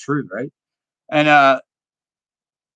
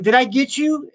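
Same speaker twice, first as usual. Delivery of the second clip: put-on high concerned girl voice; 8 semitones higher than usual. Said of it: "She's like".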